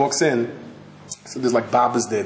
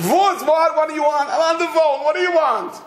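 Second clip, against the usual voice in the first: high, sharp annoyed shout; irritated snapping. Retold or imitated. Mother on the phone snaps at the old woman, high and sharp. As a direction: shoo her off angrily.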